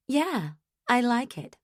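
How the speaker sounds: mock a chirpy young wife. A narrator's reading. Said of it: "in your chirpy little way".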